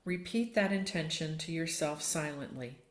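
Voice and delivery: calm yoga nidra voice with long pauses; unhurried meditation guide, letting each phrase rest; guided meditation. Real, not acted. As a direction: settle listeners into stillness, phrase by phrase.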